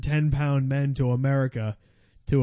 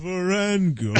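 Bruce Buffer; 4 semitones higher than usual. Acted. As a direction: stretch each name like a fight introduction. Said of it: "Bruce Buffer goes".

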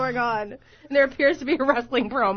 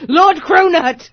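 high, loud, slow grand title; sci-fi villain voice; 6 semitones higher, 8 dB louder, slower than usual. Acted. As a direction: announce him like a space lord. Sci-fi character voice.

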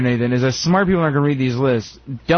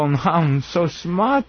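smug mock; much slower than usual.

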